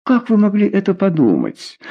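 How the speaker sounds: a hurt, reproachful ask; lightly voiced lover, stung and reproachful; reproachful question. A narrator's reading. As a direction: reproach him gently. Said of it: "с упрёком спросил Гажье".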